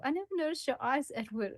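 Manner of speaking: fast, lightly mocking recital; mock the self-centred heroine; mocking the line. Friend mocking the heroine's line, quick and light. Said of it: "That line where she says".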